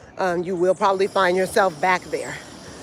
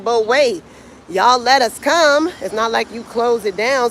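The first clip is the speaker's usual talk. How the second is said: indignant protest; 2 semitones higher than usual. Retold or imitated. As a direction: voice an aggrieved tourist complaint. Voicing stranded tourists protesting to resort.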